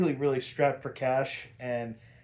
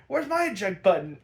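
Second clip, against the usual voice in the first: high, louder mock Harley; Harley panicking; 6 semitones higher, 4 dB louder, faster than usual. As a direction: look around in a mild panic. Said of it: "She's like".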